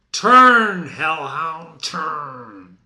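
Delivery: loud commanding turn; shouted challenge. Acted. Macduff calling Macbeth to turn, loud shout. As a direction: stop him with a shout.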